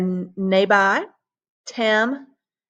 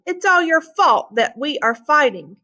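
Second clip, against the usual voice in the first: higher, mildly raised voice of blame; mock shout; 6 semitones higher than usual. The two friends blaming Tricky Guy, mild mock shout. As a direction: accuse the trickster, lightly acted. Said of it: "the two friends shouted at Tricky Guy".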